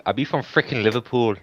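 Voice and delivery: put-on botched Liverpool accent; exaggerated, muddled British accent; mock British accent. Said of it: "a British accent".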